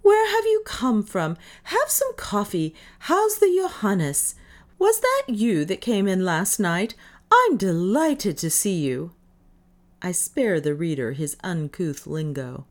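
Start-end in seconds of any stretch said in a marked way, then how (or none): 0.0-9.1 much higher and louder, tumbling out with joy; delighted welcome. A narrator's reading. Davis welcomes Bartels aboard, higher and loud with delight. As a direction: gush over an old friend.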